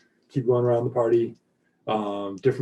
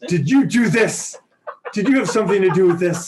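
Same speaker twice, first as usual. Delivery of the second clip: higher, louder squeaky helium voice; 7 semitones higher, 5 dB louder than usual. Acted. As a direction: squeak it out like you inhaled helium. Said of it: "in the helium squeaky voice".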